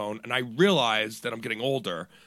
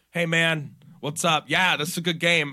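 put-on polite mic voice, pitched up; respectful friendly greeting; 4 semitones higher, 4 dB louder than usual. Gamer greeting his opponent over the mic, respectfully friendly. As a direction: act extra nice to a stranger. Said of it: "I'm gonna be respectful".

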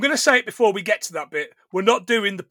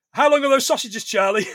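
lightly acted Turkish line, a touch higher; quoting Turkish; 4 semitones higher than usual. Turkish asking Charlie about sausages, lightly acted. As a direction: toss off Turkish's line as in the film. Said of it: "quoting the film scene".

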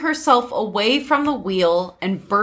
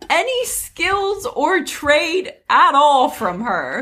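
slow tearful lament; crying; 5 semitones higher, slower than usual. Acted. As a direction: read it through mock tears.

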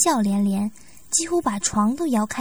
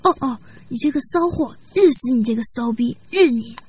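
a lightly voiced man, louder by the end; man calling out; 4 dB louder than usual. The young man calls out to the woman, mildly louder. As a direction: call out to her, a touch rough and loud. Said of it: "忍不住的对田小姐喊道".

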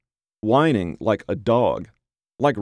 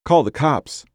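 put-on higher, strangely childlike alarm; acted fear, pitched up; terrified child; 6 semitones higher, 3 dB louder than usual. A narrator's reading. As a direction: say it like a frightened child. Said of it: "Jack's voice sounded strange, like a terrified child".

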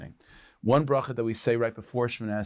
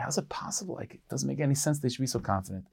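softer, half-whispered disbelief; puzzled inner thought; 5 dB quieter than usual. Retold or imitated. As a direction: mutter it to yourself, baffled. Paritz puzzled, thinking to himself.

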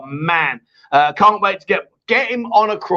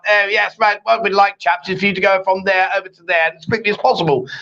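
posh officer voice, lightly done; prim precise elocution of a young officer; plum in the mouth; 2 semitones higher than usual. Retold or imitated. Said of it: "They speak with a plum in their mouth".

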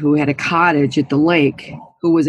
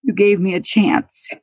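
getting emotional; 5 semitones higher than usual. Real, not acted. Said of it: "I'm gonna get emotional now".

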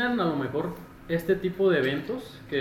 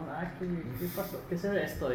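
Spanish with a put-on American accent, higher; 4 semitones higher, 5 dB quieter than usual. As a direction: play a gringo tourist asking in Spanish. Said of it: "con acento de gringo".

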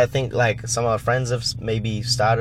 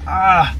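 pained "ah"; 8 semitones higher, 6 dB louder than usual. Real, not acted. Complaining that ankle hurts.

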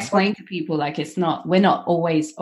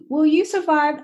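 imitating mum; 11 semitones higher than usual. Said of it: "my mum would be like".

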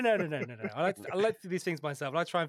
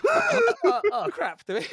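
panicked; 9 dB louder, slower than usual. Retold or imitated. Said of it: "Rob's like".

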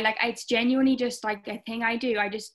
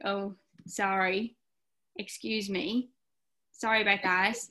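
sarcastic apology. Retold or imitated. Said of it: "I'm like".

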